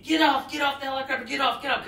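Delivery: retold yell. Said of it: "the crew chief of that helicopter started yelling".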